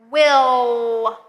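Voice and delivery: "Will" said with the L held, tongue up; model word. Shown as a demonstration. Teacher models "will" for future tense, clearly. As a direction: finish "Will" with the tongue kept up. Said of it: "keep our tongue up at the top".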